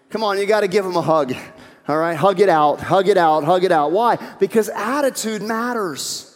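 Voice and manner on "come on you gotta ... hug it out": louder, firm hug it out; parent's command. Retold or imitated. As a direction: order the kids to make up. Parent making kids make up.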